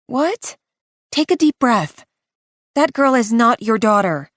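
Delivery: high, urgent friend's voice; startled then firm, steadying her; Renee, alarmed. Acted. Renee reacts, then calms.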